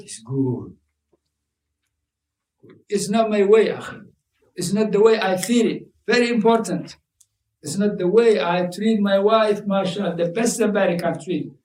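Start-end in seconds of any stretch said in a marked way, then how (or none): 2.9-11.5 smug husband. Retold or imitated. Voicing a self-satisfied husband.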